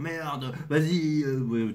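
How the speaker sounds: angry, ranting, cursing grumble under the breath. Retelling how a person started raging out loud, imitating a raging man. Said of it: "pour imiter la personne, je vais l'imiter".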